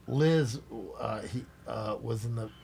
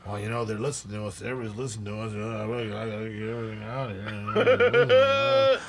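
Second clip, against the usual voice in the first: imitating a paranoid singer; 3 semitones lower than usual. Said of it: "why do you have foil".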